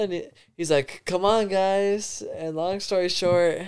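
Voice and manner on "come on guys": lightly imitated coaxing, higher and drawn out; slow, higher-pitched retold plea; tweaking stranger. Stranger urging two guys to come over, lightly imitated coaxing. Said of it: "this motherfucker's tweaking".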